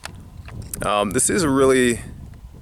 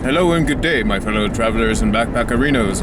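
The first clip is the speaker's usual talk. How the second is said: put-on Native American accent, slightly raised pitch; 3 dB louder than usual. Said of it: "I'm trying to do a Native American accent".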